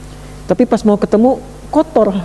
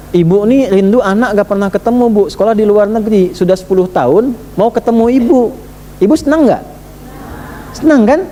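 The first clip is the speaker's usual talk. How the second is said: a son pleading, pitched higher; eager son; 4 semitones higher than usual. Acted. Son home from abroad asks mother, eager and pleading. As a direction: coax mother gently, rising high.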